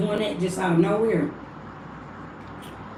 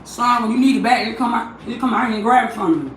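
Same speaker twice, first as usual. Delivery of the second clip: raised, higher voice carrying across the room; calling out to son; 4 semitones higher, 4 dB louder than usual. Real, not acted. Mother calling to her son in another room, raised voice. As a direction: call out loud so he hears you from the next room.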